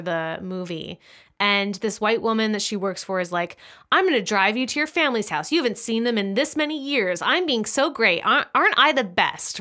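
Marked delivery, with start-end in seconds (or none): 3.9-9.6 lightly acted gushing self-praise, lifting in pitch; self-satisfied mock boasting. Employer offers her maid a favor, mock self-congratulation. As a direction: play a patron pleased with her own generosity.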